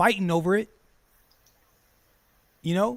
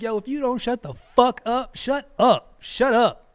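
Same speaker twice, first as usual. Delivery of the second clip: louder, raised warning yell; mock angry shout; 5 semitones higher, 5 dB louder than usual. Streamer yelling at critics to shut up. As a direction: tell them to shut up, hard. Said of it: "I'm like".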